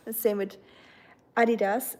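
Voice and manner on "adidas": Adidas said as AH-dee-das; German pronunciation. Shown as a demonstration. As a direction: open "ah" at the start of Adidas. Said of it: "It's not Adidas, it's Adidas".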